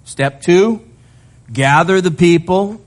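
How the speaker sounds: a lightly voiced relaxed Lord; casual God voice. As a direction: play God breezily listing the plan. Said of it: "He gives them a simple three-part plan".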